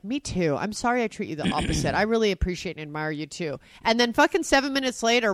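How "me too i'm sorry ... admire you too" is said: lower, softer quoted making-up; mild sincere apology. Retold or imitated. Imitating spouse making up after fight, gentle apology. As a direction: answer gently and contritely. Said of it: "And you're like".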